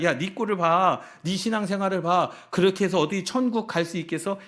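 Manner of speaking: lightly voiced accuser, pitched a bit up; Satan's accusing taunt. Satan taunting a believer about getting into heaven, accusing. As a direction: jeer at a believer, with some force. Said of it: "사단은 우리에게 그러한 귀의 속삭입니다".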